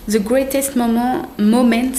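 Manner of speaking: slow English in a heavy French accent. Real, not acted. Vlogger reads a notebook cover, French-accented English. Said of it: "mon accent anglais, bonjour".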